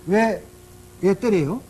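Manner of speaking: mock indignant protest; defiant child. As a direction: voice an indignant little kid talking back. Child defiantly confronts grandfather in retelling.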